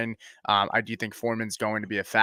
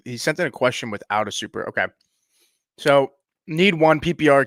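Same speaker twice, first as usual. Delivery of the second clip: chewing gum. Real, not acted. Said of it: "Sorry, I just put gum in my mouth".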